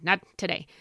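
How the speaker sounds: lightly imitated Michigan accent. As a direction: quote the coach with a touch of Michigan accent. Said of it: "whatever his Michigan accent".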